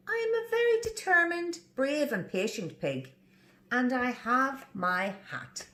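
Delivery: proud little pig. Acted. Pig proudly listing his virtues, high start. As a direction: declare it with pride.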